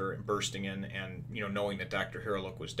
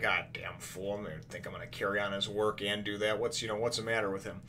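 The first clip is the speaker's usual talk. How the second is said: retold grumbling; 6 dB quieter than usual. Doctor left alone after her colleague's request, grumbling. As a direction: grumble under it, imitating an exasperated character.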